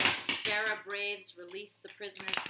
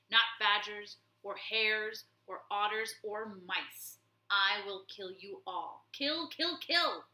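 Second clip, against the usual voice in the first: shouting warlord; 6 dB louder than usual. Acted. Warlord lashing the abbot, loud furious shout. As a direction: bellow it, then shriek the kills. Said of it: "he shouted".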